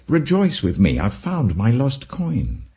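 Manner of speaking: a shepherd overjoyed, sharing the find; joyful. Acted. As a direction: call out the good news with delight. Woman's joyful call to neighbors.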